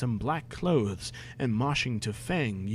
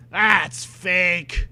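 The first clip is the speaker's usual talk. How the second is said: the same words again, pushed higher and louder; escalating disbelief; louder indignant call-out; 5 semitones higher, 7 dB louder than usual. Real, not acted. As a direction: call it out harder, incredulous.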